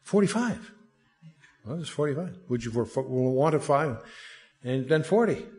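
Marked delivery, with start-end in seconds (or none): 0.0-0.7 put-on haggling Jewish accent, rising on "forty-five". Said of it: "you have to almost do this with a Jewish accent". 1.7-4.0 put-on Jewish accent. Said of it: "you have to almost do this with a Jewish accent".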